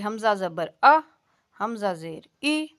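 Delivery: حمزہ زبر آ with a hard glottal jolt on آ; the wrong way, jolt each vowel; جھٹکے کے ساتھ; jerked hamza. Shown as a demonstration. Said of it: "اس طرح بھی نہیں پڑھنا".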